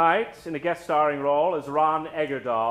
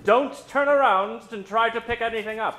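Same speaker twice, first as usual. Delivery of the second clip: mock warning; 5 semitones higher, 5 dB louder than usual. Host warns audience about noises.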